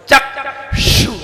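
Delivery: चक्षु whispered with clear क्षु; careful pronunciation. Shown as a demonstration. Teacher models चक्षु for students. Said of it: "ध्यान दें".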